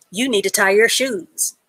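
blunt, direct order. Shown as a demonstration. Teacher showing a blunt command to a student. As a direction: tell it straight with no softening. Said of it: "the way that I said it is very direct".

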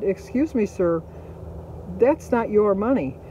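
retold indignant challenge, slowing on the accusation; firm objection. Restaurant worker catching a customer in the tip jar, firm objection. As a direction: pull him up short, politely but firmly.

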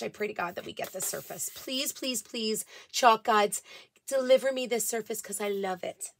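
very soft, playful pleading under the breath; hushed mock prayer. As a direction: plead quietly, as if praying for a treat. Mock prayer to chalk gods.

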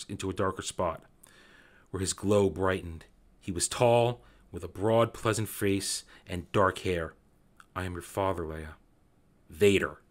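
hushed, measured reading of a dramatic novel scene; story reading. Acted. Fan reading a Star Wars novel scene to viewers, hushed and dramatic. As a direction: read it low and intent, letting the drama land. Reads novel passage aloud.

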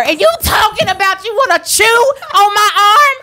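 indignant shout. Pretend. Mock outrage rant.

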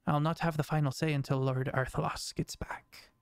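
hushed warning. Acted. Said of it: "nods along and goes".

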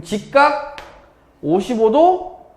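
"직각 오십오 도," high, slow, with pauses. Shown as a demonstration. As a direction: spell out the order, "직각" then "오십오 도,", slowly. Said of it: "이렇게 읽어야 되니까". ("직각 오십오 도,"를 높고 느리게 끊어 읽기)

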